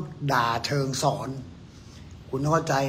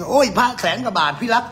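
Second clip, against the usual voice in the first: higher-pitched imitation of an indignant seller; mock outcry; 5 semitones higher, 4 dB louder than usual. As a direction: protest like an outraged amulet owner. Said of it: "เดี๋ยวมันก็โวยวายมาเอง".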